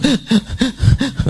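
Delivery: high, imitated weeping sound; mock sobbing. Imam weeping after one verse, mock sobbing. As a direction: fake a burst of sobs. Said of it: "satu ayat nangis dulu".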